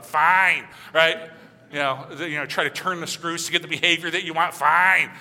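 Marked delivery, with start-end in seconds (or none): 0.0-1.3 a loud, huffy, falling fine; sulky kid's fine. Retold or imitated. Sulky kid huffing at a parent's request, loud grudging fine. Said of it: "that's my kids, all". 4.5-5.1 loud, huffy falling fine with a roll of the eyes. Retold or imitated. Kid rolling eyes at parent, huffy loud fine. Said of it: "get the roll of the eyes".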